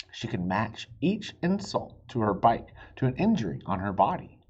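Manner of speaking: lively read-aloud for little listeners; storybook reading. A narrator's reading. Dad reading a chapter book to his kids, animated. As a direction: read it like bedtime story time.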